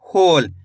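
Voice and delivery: "होल" with a long, falling "हो"; drawn-out "होल", dropping in pitch; careful pronunciation. Shown as a demonstration. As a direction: sound out "होल" slowly and clearly for dictation. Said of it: "कैसे हो रहा है?".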